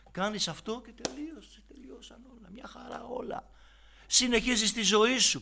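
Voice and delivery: high, light voice of the tempter; mock tempter. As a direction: mimic the devil's easy promise. Mimics the tempter's easy offer.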